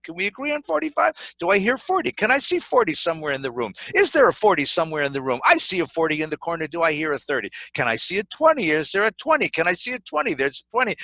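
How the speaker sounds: brisk auctioneer's patter calling bids. Acted. Abraham haggling God down like an auctioneer calling bids. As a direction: work the room like an auctioneer. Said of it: "He starts to bargain".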